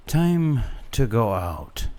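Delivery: a hint of a frail grandfather; weary old grandfather. A narrator's reading. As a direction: speak slow like a tired old man.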